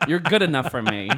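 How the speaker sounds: mock Asian accent through laughter; lightly imitated Asian-accented suitor; his Asian accent. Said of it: "do it in his accent".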